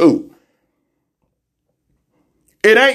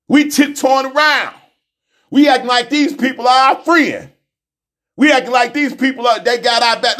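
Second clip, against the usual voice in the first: intense; 4 semitones higher than usual. Real, not acted. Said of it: "My intensity is not the problem".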